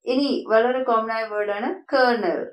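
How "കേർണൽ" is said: "കേർണൽ" like English "kernel"; model pronunciation. Shown as a demonstration. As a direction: put an r sound in "കേർണൽ". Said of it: "ഇവിടെ നിങ്ങൾ നോക്കുമ്പോൾ ആർ ഇല്ല". ("കേർണൽ", ആർ ശബ്ദത്തോടെ)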